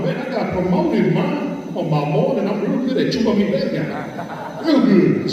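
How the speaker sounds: high, laughing proud boast; telling Mom about the promotion, high and laughing. Retold or imitated. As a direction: brag to Mom through laughter. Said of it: "told Mom".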